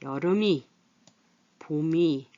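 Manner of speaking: 여름이 as "여르미", 봄이 as "보미"; careful demo of "여르미" and "보미"; linked pronunciation. Shown as a demonstration. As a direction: run the ㅁ into 이: "여르미, 보미". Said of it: "이어서 소리 나기 이렇게 말을".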